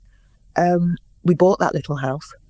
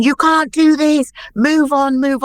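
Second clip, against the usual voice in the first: frantic order; 9 semitones higher, 5 dB louder, slower than usual. Retold or imitated. Producers ordering them to move on.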